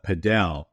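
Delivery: padel as puh-DELL, stress on the end; stressed second syllable. Shown as a demonstration. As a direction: say "padel" with a short first vowel and a strong DELL. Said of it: "to differentiate it from another".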